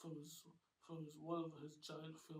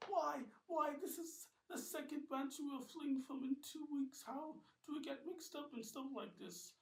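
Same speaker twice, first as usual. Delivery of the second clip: high, loud complaining; exasperated yell; 10 semitones higher, 7 dB louder than usual. Acted. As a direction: shout in frustration. Ben complains while running.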